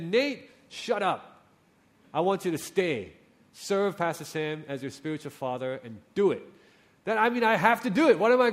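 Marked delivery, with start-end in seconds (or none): 0.0-6.4 lightly voiced strict God giving orders; mild stern command. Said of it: "if God had come to me and said".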